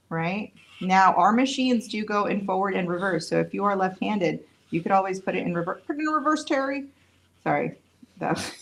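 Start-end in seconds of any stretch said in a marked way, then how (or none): 5.9-6.9 high, sing-song meme delivery; quoting a meme to the viewers, high and playful; internet meme quote. Pretend. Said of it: "I'm chronically on the internet".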